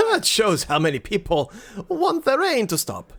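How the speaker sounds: high-pitched villager voice; hopeful villager. Acted. Voices villagers praying for rain.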